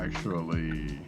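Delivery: normal talking voice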